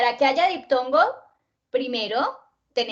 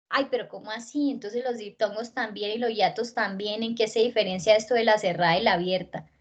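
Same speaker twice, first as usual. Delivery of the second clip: confused student; 2 semitones lower, faster than usual. Acted. Teacher voicing a pupil muddled by diphthongs and hiatus, puzzled.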